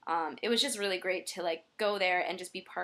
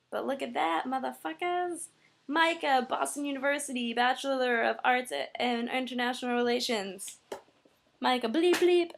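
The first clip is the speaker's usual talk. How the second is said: swearing tirade; 5 semitones higher than usual. Real, not acted. Showing off new diploma.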